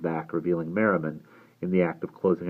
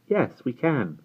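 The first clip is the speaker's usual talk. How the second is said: higher-pitched, brightly willing reply; bright agreement; 8 semitones higher, slower than usual. A narrator's reading. Jane answering after a very small silence, brightly. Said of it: "then Jane said brightly".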